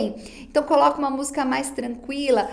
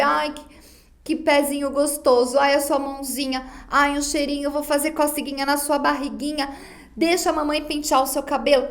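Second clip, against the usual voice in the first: gently doting mother, barely changed from her own voice; mild baby talk; 2 semitones higher than usual. Retold or imitated. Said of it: "aquela coisa que a gente faz com o bebê". (mãe falando com o bebê com carinho, de leve)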